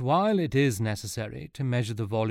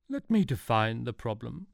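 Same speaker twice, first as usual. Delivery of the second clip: movie trailer voice; 3 semitones higher than usual. Acted. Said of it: "a voice that sounded like a trailer to a very long film".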